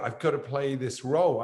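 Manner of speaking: retold insistence, pushing back a little harder; insistent plea. Insisting after the team objects.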